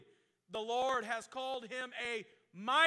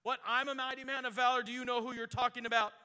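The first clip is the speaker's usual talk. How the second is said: mock pouting; 4 dB louder, faster than usual. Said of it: "Gideon started to pout".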